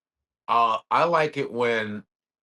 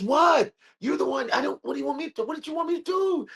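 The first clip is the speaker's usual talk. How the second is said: high mock exasperation; 14 semitones higher than usual. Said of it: "He goes".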